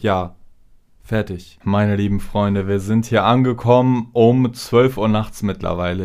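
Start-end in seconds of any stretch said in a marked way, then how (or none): 1.6-6.1 slightly slurred late-night voice; tired, slurring words a little; slurred speech. Real, not acted. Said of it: "Wahrscheinlich lallig".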